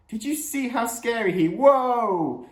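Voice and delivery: high-pitched protest breaking into a loud whoa; startled outburst. Acted. Dad at the wheel is jolted, startled. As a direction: cut yourself off with a yelped whoa.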